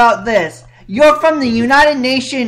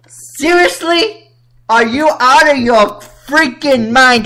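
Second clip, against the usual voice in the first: incredulous. Real, not acted. Incredulous at victim-blaming.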